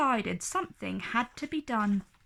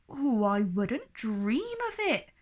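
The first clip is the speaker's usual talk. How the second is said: horrified. Acted.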